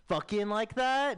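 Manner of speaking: high, drawn-out mock bedroom talk; awkward dirty talk. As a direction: push it too hard, slowly. Acting his bad dirty talk.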